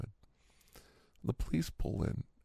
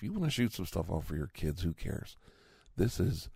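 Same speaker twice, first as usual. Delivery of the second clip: usual speaking voice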